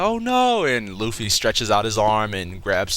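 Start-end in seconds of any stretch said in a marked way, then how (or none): 0.0-0.7 high, louder hammed-up cry; mock alarm. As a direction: wail it in imitation of a panicked crew. Crew's alarm acted in retelling.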